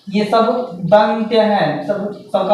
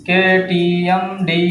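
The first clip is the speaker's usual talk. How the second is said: slow dictation of केटीएमडी; slowly spelled out; much slower than usual. Shown as a demonstration. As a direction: draw out केटीएमडी slowly, syllable by syllable.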